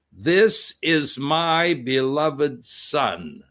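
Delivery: very slow, solemn words from above; voice from heaven. Acted. Preacher voicing God speaking from the cloud, slow and solemn. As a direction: let God's voice weigh each word.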